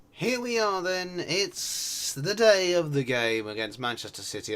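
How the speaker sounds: drawn-out, high, loud match-day announcement; announcer intro. Pretend. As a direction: herald the big game like a stadium announcer.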